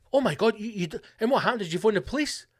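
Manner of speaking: high, alarmed questions; mock alarm. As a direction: play the friend who panics. Acted dialogue, shocked listener.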